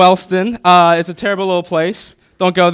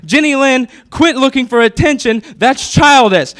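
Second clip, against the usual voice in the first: higher, pompous big-brother scold; hammed-up scolding; mock scolding; 7 semitones higher than usual. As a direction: lecture her like a grown-up. Scolding little sister in story.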